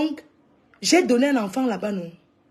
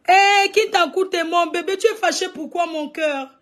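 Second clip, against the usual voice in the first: higher, louder coaxing of a sweetheart; cooing endearment; 5 semitones higher, 4 dB louder than usual. Acted. Coaxing a sulking sweetheart with high, cooing endearments. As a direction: coo at a sulking darling.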